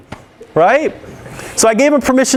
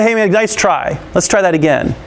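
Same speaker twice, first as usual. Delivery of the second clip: encouraging; 2 semitones lower than usual. Shown as a demonstration. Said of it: "encourage them and say".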